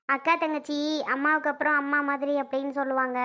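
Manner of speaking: a touch of tears, subdued; tearful lament. Acted. A sister laments to those consoling her, tearfully. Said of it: "நீ எதுக்குடி அழுகுற".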